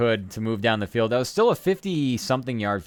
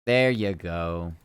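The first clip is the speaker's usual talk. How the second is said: slow drawn-out praise; pet talk; 4 semitones lower, much slower than usual. Pretend. Teasing Ren in chat, slow drawn-out pet praise. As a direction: stretch it like praising a dog.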